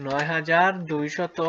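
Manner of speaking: slow, even "নয় হাজার দুইশত" with a rise on "হাজার"; drawn-out number read; slow dictation. Shown as a demonstration. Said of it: "এটির উচ্চারণ কি?".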